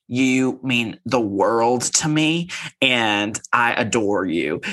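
slow, gushing declaration; mock adoring. Imitating a castmate making up with her friend, slow adoration. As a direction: spell out the affection slowly. Mimicking Sutton's declaration of affection.

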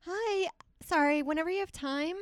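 high, apologetic customer voice; making oneself small. Acted. Diner timidly asking waiter to take the order, high and apologetic. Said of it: "just making myself small".

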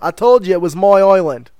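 lightly done Irish movie character; bad Irish accent. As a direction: try the Irishman from Braveheart. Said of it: "I'm not very good with the, the Irish".

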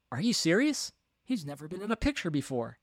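doubting crew member. Acted. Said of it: "I remember crew members saying to me".

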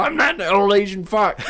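high, loud, laughing through it; mock him while cracking up; giggling imitation; laughing mock quote. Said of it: "he's just like".

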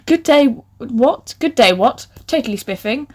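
lightly voiced posh lady, drawn out at first; fancy woman voice. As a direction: try out a mild fancy-woman voice. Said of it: "in my best fancy woman voice".

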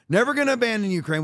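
sarcastic parroting of an empty promise; mocking quote. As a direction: mimic a hollow Democrat pledge, mockingly. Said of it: "typical Democrat".

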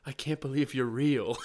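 laugh-shouted, starstruck; laughing disbelief. Retold or imitated. Fan hugging Pete Holmes, laughing in disbelief. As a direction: blurt it through a laugh. Embracing his podcast hero.

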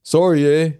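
put-on light stereotype Canadian accent. Cohost given Canadian in accent challenge, half-hearted Canadian accent. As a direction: try a mild mock Canadian.

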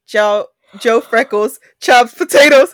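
slow careful read. Shown as a demonstration. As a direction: spell it out slowly. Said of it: "It's hard in English".

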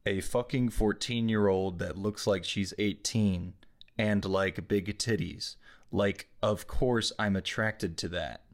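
slow, monotone quote reading; monotone readout. Acted. Host reading a harsh quote to show how weird, monotone. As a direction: read it out slowly without expression. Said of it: "read this in a monotone voice".

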